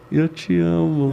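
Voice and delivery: drawn-out, loveless declaration; slow, unconvincing words of affection; unloving "I love you". Shown as a demonstration. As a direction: say love slowly without sounding like love. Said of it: "esse jeito não tá parecendo que é amor".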